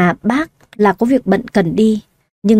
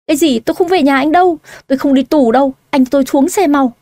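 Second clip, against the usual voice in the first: higher, frantic pleading to be let out; a pitched-up frantic protest; panicked refusal; 5 semitones higher than usual. Acted. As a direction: beg to get out, frightened.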